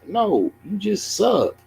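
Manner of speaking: high, slow mocking sing-song; mock taunt. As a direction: taunt him in a silly drawn-out voice. Mocking the chess opponent.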